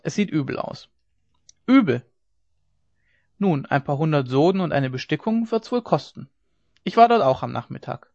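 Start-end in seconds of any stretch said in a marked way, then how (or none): 1.7-2.0 high, louder incredulous echo; surprised echo. Acted. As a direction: throw the word back in disbelief. Ole echoes bad news in disbelief.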